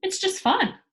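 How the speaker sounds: high, loud and playful; a carefree child calling out to scared men; gleeful cry. A narrator's reading. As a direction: call down from the roof teasingly. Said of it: "cried Pippi".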